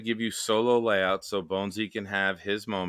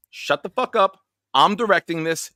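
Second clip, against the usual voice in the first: mock yell; 8 semitones higher, 5 dB louder than usual. Mock yelling at Tom.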